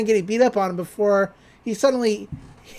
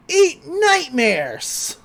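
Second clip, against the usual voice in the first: mock scream; 8 semitones higher, much slower than usual. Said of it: "He starts screaming".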